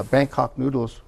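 ordinary delivery

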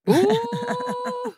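high, loud yelp of shock; a sudden shocked ooh, almost a shout; squealed ooh. Real, not acted. Reacting to a shocking plot twist.

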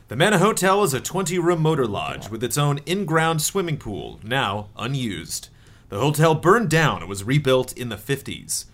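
measured read-aloud of a game intro; setup narration. A narrator's reading. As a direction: read the scene-setting aloud.

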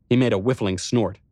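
ordinary delivery, nothing marked

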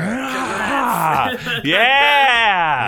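high, loud triumphant yell; winning cheer. Real, not acted. The speaker cheering his win for the hosts, loud and high. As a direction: whoop like you just won.

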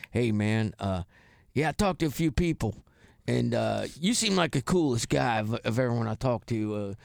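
easygoing Southern guy on the phone, voiced low-key; a hint of a Southern accent, retold. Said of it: "this guy with a real Southern accent".

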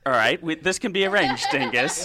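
loud, playful laughing; laughing while joking back. Real, not acted. Playful threat during tickle joke.

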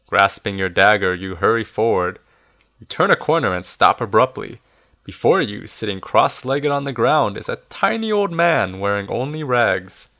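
measured, expressive storybook reading; story narration. A narrator's reading. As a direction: read it aloud like an adventure tale. Reads the story aloud.

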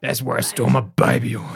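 Billy Butcher. Retold or imitated. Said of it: "Do Your Best Billy Butcher impression".

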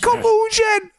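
very high, drawn-out nerdy detective squeal; Marvin. Acted. Mock detective declaring collusion proved, shrieking with excitement. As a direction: wail it in overblown triumph. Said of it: "the overly aggressive, nerdy detective".

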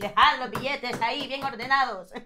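mock Castilian with lisped th in hacéis; Spanish dub parody. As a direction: play a Spaniard in a dubbed heist show. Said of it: "el doblaje así de La Casa de Papel".

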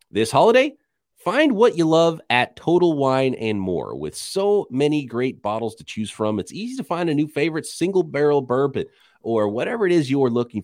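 upbeat commercial voice; ad read. Acted. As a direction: sell it like a radio spot. Reads a sponsor ad.

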